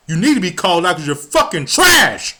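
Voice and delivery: real angry shout at them. Real, not acted. Vlogger calling out the administration, in a real angry shout. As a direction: yell it out, fed up and furious. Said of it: "I don't apologize for my fucking anger".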